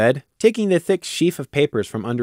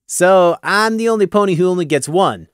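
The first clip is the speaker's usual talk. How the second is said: slightly higher, dry question; 6 semitones higher, 4 dB louder than usual. Acted. Gloom questions Taffy's rule, dry and wry. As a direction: ask with dry irony. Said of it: "Gloom asked dryly".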